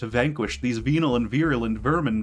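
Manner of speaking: dramatic theatrical recital; grand villain speech reading; V monologue. Acted. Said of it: "read the thing".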